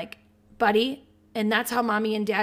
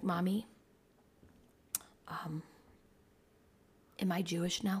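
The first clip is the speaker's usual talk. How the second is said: put-on timid voice, much quieter; 3 semitones lower, 11 dB quieter than usual. Mother retelling her son's question on the drive home, imitating his timid voice. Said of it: "this like timidness in his voice".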